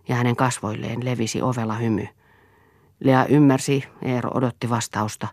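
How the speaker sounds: ordinary delivery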